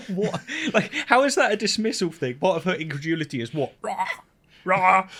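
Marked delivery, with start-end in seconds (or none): 3.8-5.1 mock dinosaur roar; short, high, loud "rah" roars; imitated roar. Imitating the video's dinosaur roar, mock roaring. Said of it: "it roared like".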